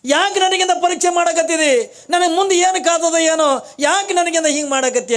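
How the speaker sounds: anguished lament. Acted. Kalavve laments to god.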